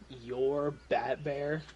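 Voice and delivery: deep gravelly prisoner snarl; low harsh voice. Acted. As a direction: growl it like an angry convict. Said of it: "deep, gravelly voice".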